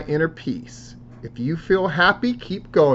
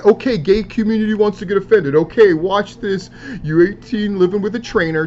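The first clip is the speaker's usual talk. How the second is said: raised-pitch imitation of an annoyed poster; mock irritated challenge; 4 semitones higher than usual. Vlogger voices wrestler challenging his critics, mock irritated. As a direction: read it out as a mildly heated comeback.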